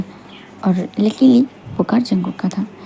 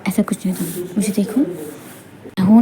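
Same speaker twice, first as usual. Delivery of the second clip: soothing; 2 semitones lower, 4 dB quieter than usual. Acted. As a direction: comfort someone in tears, quietly. Comforts her while she cries. (धीमे से दिलासा देते हुए)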